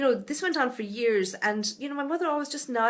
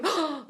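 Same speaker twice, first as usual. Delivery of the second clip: startled gasp; 5 semitones higher than usual. Shown as a demonstration. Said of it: "don't go like that".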